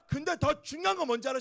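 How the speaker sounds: normal talking voice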